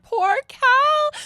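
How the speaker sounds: very high, loud drawn-out sympathy; wailed pity. Retold or imitated. Friend thinking of the stranded traveller, wailed pity. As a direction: coo it in exaggerated, high-pitched pity.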